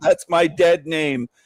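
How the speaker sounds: mock angry snapping. Retelling her reply to being called Karen: imitating someone snapping angrily. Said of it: "and she snapped".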